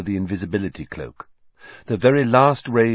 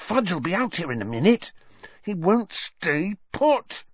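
tense, high voice; 9 semitones higher than usual. A narrator's reading. Hermione and Ron panicking, hiding.

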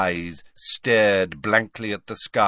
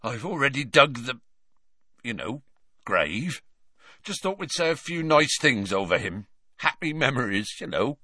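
quivering voice; 4 semitones higher than usual. Acted. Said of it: "His voice quivered and broke".

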